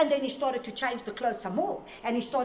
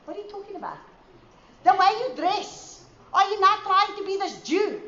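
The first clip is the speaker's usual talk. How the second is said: mocking critic; 9 semitones higher, 6 dB louder than usual. Mocking critics voiced in story.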